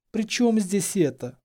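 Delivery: high, slow puzzled question; bewildered. A narrator's reading. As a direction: ask it at a loss. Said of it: "произнесла она растерянно". (растерянно, высоким голосом)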